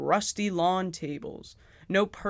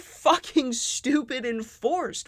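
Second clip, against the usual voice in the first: slow, higher, fed-up disbelief; exasperated; 8 semitones higher, 4 dB louder, slower than usual. Real, not acted. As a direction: throw up your hands at it. Exasperated rant at the writing.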